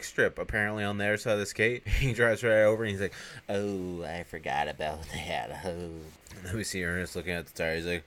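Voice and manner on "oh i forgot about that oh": mock crestfallen groan of realising; retold dismay. Ernest realising he forgot the spike strip, mildly dismayed.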